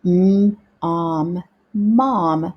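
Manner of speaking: drawn-out phonics blending of "mom"; sounding out. Shown as a demonstration. Teacher leading pupils in practice together, sounding out word by word. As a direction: sound out mom, stretched m, then the rest, then whole. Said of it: "let's practice together now".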